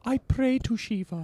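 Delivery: put-on high, slow child's Indian accent. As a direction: say it like the boy in Indiana Jones. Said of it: "the child's accent".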